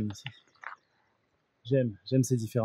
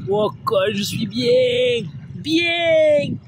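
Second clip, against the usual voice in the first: in ice cold water; 12 semitones higher, 4 dB louder, much slower than usual. Real, not acted. Joking while in cold water.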